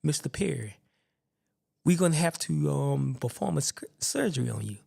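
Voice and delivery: measured, unhurried mock doctor's delivery; confident surgeon. Surgeon breaks news of surgery to his patient, calm and confident. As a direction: imitate a calm, self-assured doctor. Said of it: "he's just so confident".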